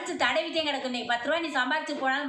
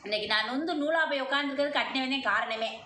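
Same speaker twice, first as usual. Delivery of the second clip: possessed goddess voice. Acted. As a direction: proclaim as the mother goddess in trance. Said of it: "அம்மா அருள்ல வந்து சொல்லிச்சு".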